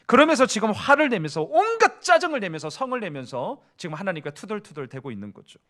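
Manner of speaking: usual speaking voice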